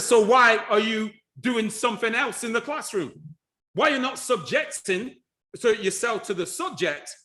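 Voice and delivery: high, insistent questioning of a pupil; challenging teacher. Retold or imitated. Acting out challenging pupils in class.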